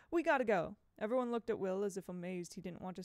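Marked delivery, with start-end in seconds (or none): 0.1-0.8 urgent. Acted. Boy urging departure.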